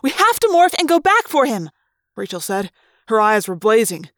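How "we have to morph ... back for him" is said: urgent. Acted. Rachel urges going back.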